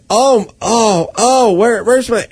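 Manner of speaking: high, imitated flustered woman; panicky lamenting. Mugged woman hunts for her things, imitated panic. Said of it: "She was panicking and kind of lamenting".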